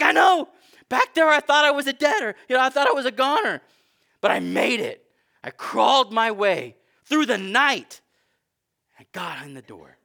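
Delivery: high, loud self-congratulation; boastful believer. Acted. Believer to God, loud high bragging. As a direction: brag about crawling up the hill.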